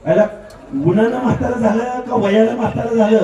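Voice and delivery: loud jeering question; mocking shout. Real, not acted. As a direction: taunt the rival loudly. Mocking rival at rally. (टोमणा मारत ओरडणे)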